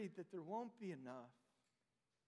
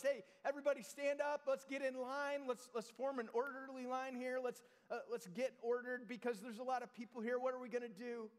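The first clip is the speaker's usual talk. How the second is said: raised, hurried crowd-wrangling voice; hurried organizer; 5 semitones higher than usual. Pretend. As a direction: bustle everyone into line. Preacher mimics hurried crowd organizing.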